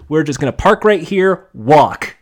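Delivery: loud, curt mock eviction; curt dismissal. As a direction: kick them out with loud one-word orders. Acting out kicking contestants off.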